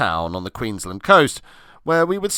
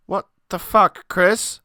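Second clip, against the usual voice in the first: higher, louder disbelieving swear; outraged outburst; 9 semitones higher, 3 dB louder, slower than usual. Acted. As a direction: blurt it out in shock. Outraged at Chris eating bait.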